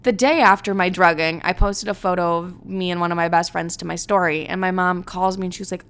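ordinary delivery

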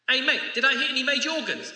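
lightly acted cheeky caller, hurried and high; drive-by caller. Man leaving a drive-by voice message, quick mock caller.

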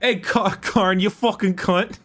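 high, badly faked Australian accent. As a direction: put on a comic Aussie call. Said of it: "That's a great Australian accent".

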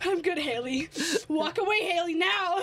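mock restrained anger at a friend; retold fuming. Sending Haley away after the spill, retold fuming. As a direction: act out barely holding it in.

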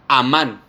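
"amán" with the accent on the last A; stress on final A. Shown as a demonstration. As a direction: lean on the second syllable of "amán". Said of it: "con acento en la A".

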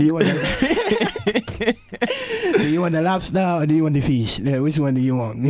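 badly faked French accent, breaking into laughter; hammed-up French waiter taking an order. Shown as a demonstration. Waiter offering lobster or fish, amateur French accent. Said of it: "doesn't necessarily sound like a French accent".

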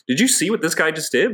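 a hint of a coach calling someone out; mocking coach. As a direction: imitate a coach showing up a player in front of the team. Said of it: "to be like".

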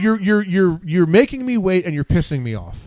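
exasperated outburst. Acted. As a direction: vent at someone holding up the line. Venting at slow self-checkout users.

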